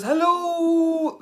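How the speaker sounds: squeaky hello. Pretend. Reading a viewer's greeting.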